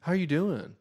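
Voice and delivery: lightly mock an awkward pause-filler; awkward teen voice. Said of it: "it just got real quiet".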